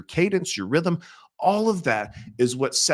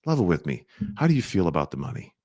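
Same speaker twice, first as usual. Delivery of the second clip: low, calm, a touch quicker; calm direct money question; frank, gentle ask; 6 semitones lower, faster than usual. Shown as a demonstration. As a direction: ask it straight but easy. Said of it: "That's how you bring it up".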